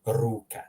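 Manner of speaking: "Ruka" with a trilled first R; rolled R. Shown as a demonstration. Teacher reading a learner's example, rolled R in "Ruka". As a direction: roll into "Ruka". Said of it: "how to properly pronounce the R".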